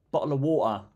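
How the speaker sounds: "water" said British, "wɔtə", no R; clipped British bottle of water; British pronunciation. Shown as a demonstration. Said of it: "you saying British".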